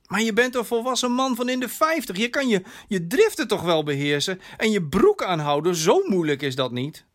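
licht gespeelde dochter, hoog en snel inzettend; verwijtende dochter. Acted. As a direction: lees je vader de les. (verwijtend, verontwaardigd)

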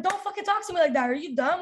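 indignant retort, moderately heated; retold angry outburst. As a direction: replay an angry comeback without fully yelling. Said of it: "I was freaking angry".

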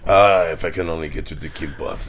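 put-on Polish accent. Listener joins the Polish impression.

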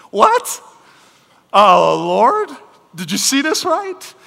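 high, loud, comic disbelief; mock incredulity. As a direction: squawk it as if God got it wrong. Preacher acts incredulous reaction to greeting.

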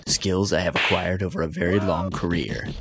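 hint of a cold action-hero threat; movie threat speech. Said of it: "I'm gonna read a speech".

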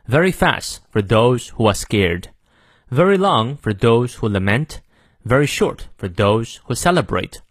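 measured American English model reading; careful American accent, pausing between phrases; American pronunciation. Shown as a demonstration. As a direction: read it in clear General American, R's sounded. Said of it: "好，再来一遍".

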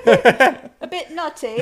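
very slow, loud, drawn-out verdict; judging chef. Pretend. Tasting the cake, slow and loud like a judge. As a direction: savor each word like a TV judge.

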